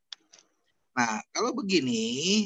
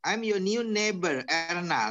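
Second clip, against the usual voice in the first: slow, clearly modelled introduction; slow teacher's model sentence; modelled line reading; 2 semitones higher, slower than usual. Shown as a demonstration. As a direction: read it out slowly for a learner to copy. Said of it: "like this, right?".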